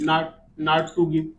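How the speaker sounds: very slow, word by word; slow dictation. Shown as a demonstration. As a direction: dictate each word slowly. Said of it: "teacher dictating negative phrase". (धीरे-धीरे लिखवाना)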